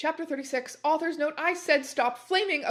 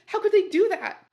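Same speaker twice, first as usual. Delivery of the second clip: high, loud outraged shout; outraged cry; 9 semitones higher, 8 dB louder than usual. Acted. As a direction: hurl the question in fury. Outrage after the sign.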